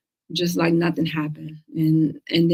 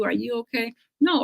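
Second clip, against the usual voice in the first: mock pity; 5 semitones higher than usual. Acquaintance pitying a cancer patient, mock concern. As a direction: imitate a hushed, pitying check-in. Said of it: "with that voice".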